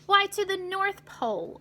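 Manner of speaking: lightly voiced cheerful conductor; conductor answering. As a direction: answer as if it were obvious. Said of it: "was his answer".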